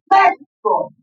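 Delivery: "México" called out high, hitting "Me"; teacher calling out the stressed syllable of "México". Shown as a demonstration. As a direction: punch the first syllable of "México". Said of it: "Sílaba tónica".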